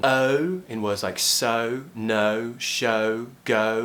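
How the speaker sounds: stretched gliding o in "so, no, show, go"; British O diphthong. Shown as a demonstration. Teacher gives examples of a very British sound, gliding O. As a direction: start the o relaxed, glide to rounded in "so, no, show, go". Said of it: "the O sound".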